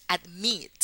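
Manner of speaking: "admit" with the stress on "mit". Shown as a demonstration. Teacher pointing out the accented I, stress on last syllable. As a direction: lean on the I in "admit". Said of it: "la sílaba acentuada en la I".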